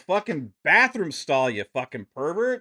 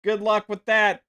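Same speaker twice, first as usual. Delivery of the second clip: sarcastic refrain; 5 semitones higher than usual. Real, not acted. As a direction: toss it off with biting sarcasm. Sarcastic refrain against Sony.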